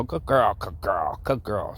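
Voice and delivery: upbeat praise for the dog. Shown as a demonstration. Owner showing the dog how praise sounds, upbeat. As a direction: cheer her on with each repeat. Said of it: "See how rea-, she reacts to that?".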